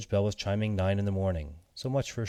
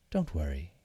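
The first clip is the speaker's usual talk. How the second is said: softly; 4 semitones lower than usual. Acted. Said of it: "the cat said softly".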